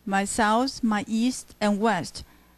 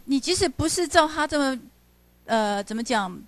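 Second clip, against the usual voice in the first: ordinary talk, nothing marked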